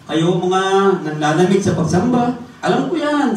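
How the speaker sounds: high, loud stern warning; voice of God warning. Retold or imitated. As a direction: speak as God scolding the church. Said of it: "sabi niya". (babala ng Diyos, mataas at malakas)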